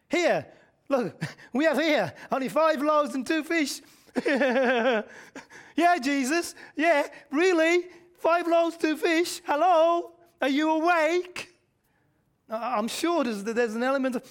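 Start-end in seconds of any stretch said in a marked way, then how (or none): 0.1-3.8 louder, laughing mock reply; sarcastic disciples. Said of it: "I think it's sarcastic". 5.8-11.5 high, loud, mocking disbelief; sarcastic disciples. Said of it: "I think it's sarcastic".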